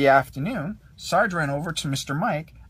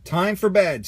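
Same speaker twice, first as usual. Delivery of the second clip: Sarge announcing; 4 semitones higher, 6 dB louder than usual. A narrator's reading. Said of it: "Sarge announced".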